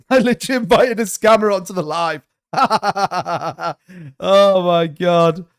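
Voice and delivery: real laugh at your own blunder; laughing in disbelief. Real, not acted. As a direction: laugh through it, amazed at yourself.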